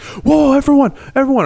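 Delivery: high, loud gamer taunt; loud mock taunt to the whole lobby; gloating shout. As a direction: crow it out over the chat. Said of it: "I was like".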